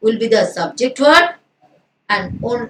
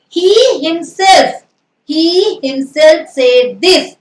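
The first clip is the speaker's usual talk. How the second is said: slow, deliberate reading of the example; slow dictation; 2 semitones higher, much slower than usual. Shown as a demonstration. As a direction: lay out each word for the class. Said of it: "teacher reading example slowly".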